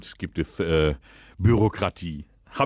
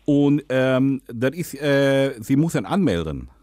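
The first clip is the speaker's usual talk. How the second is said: put-on Dutch accent, lisping. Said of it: "rede, lispeln und Holländisch".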